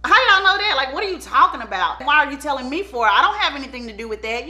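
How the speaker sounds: mock-indignant suspect, pitch jumping up on the denial; defensive attitude. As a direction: play it innocent and offended. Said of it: "he's taking on this type of attitude".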